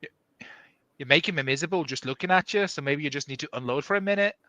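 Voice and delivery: quick, unconvincing Australian; failed Australian accent. Acted. Reader retrying a friend's dialogue after doubts, failed Australian accent. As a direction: rattle it off in a not-quite-Australian accent. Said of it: "That was not Australian".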